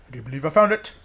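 fuller voice rising at the end; growing excitement. Real, not acted. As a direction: repeat it openly, lifting the last words. Repeats find with growing excitement.

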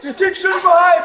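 loud, high-pitched order; urgent shout. Real, not acted. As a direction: yell orders in the heat of a fight. Yelling orders in zombie game.

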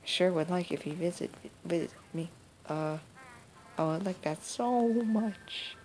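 lightly voiced granny, hopeful about her grandson; a hint of a lonely old woman wishing; old grandma voice. Granny asking about her grandson, lightly voiced hopeful.

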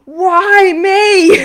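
a high, loud anguished yell, half laughing; hammed-up wail of despair; mock scream. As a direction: cry out to the sky with a laugh breaking through. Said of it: "where you scream and go".

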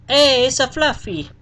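light up on spotting him; excited greeting. Real, not acted. Player spots the lost boy Fluffy, calling out delighted.

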